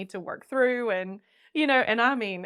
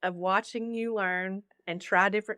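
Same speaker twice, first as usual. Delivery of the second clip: gentle counselor. Retold or imitated. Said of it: "taking my hand and saying".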